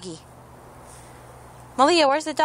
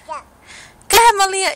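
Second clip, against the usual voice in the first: coaxing sing-song; 7 semitones higher, 7 dB louder, slower than usual. Real, not acted. Coaxing toddler to throw.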